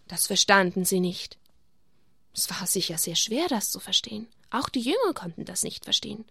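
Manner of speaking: put-on gentle storytelling for children; story narration. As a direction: tell it like a bedtime Bible story. Reading Bible story to children.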